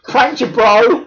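drawn-out high prankster shout; hammed-up prankster gloating; mock prankster. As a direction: yell it slow like a gotcha YouTuber.

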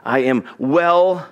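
slow, spaced-out pronouncement; God's approval. Acted. God speaking of his son, slow and weighty approval. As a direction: set each word apart, pausing before the last. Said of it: "And then he says".

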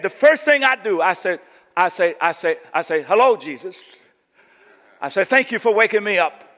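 lightly imitated preacher, stammering into it; imitation preacher with repeated false starts; Doctor Fred Sampson. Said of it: "That's how he talk".

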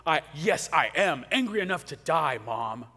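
put-on a sulky child talking back to Mom; a light hint of a pouting child; childish whine. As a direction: whine it like a kid stamping his foot. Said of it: "Does that sound so childish to you".

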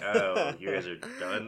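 high-pitched imitation of annoyed friends; mock annoyed. Host imitating friends left out of the party, mock annoyed. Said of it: "they were, like, annoyed".

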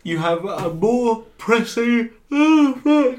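slow then a sudden high yelp; startled cry. Real, not acted. Startled by the fog, a sudden high yelp. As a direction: caught off guard mid-sentence.

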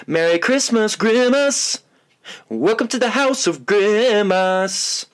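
high, slow, theatrical announcer voice; goofy announcer. Acted. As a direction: boom it like a carnival barker. Spooky intro bit.

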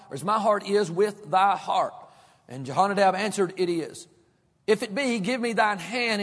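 measured, formal reading of the verses; scripture reading. Acted. Preacher reading scripture to the congregation, measured. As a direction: read the passage steadily to the congregation.

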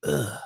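low, short "ugh" of distaste; disgusted groan. Retold or imitated. Adult rewatching a bad childhood sitcom, disgusted groan. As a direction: groan "ugh" at something unwatchable.

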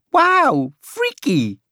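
high, wowed exclamation; loud wow, easing off on the second word; imagined amazement. A narrator's reading. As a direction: imitate a girl's impressed reaction. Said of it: "She'll say".

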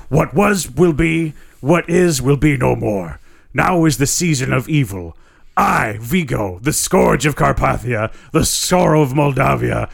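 slow, ominous sorcerer voice; slow, grand and menacing; Vigo. Acted. Villain Vigo speaks.

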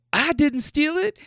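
put-on girlfriend's voice. Girlfriend denies stealing the car.

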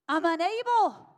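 mock wail. Imagined parent declaring defeat.

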